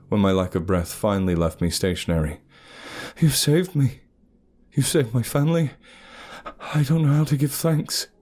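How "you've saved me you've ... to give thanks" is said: overwhelmed gratitude. Acted. Narrator thanking the huntress, gushing high.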